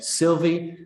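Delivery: Sylvie stretched slowly and stressed. Shown as a demonstration. Teacher showing students the stress on Sylvie. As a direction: draw out Sylvie. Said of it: "You see how it changes".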